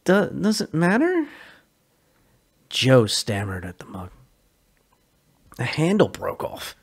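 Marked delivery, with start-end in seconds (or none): 0.0-1.3 defensive. Acted. Sully evasive.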